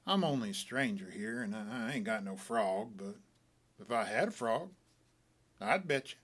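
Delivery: a gentle put-on sadness; kinda sad. A narrator's reading. Stranger pretending he has no frog to bet, mildly sad. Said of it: "kinda sad like".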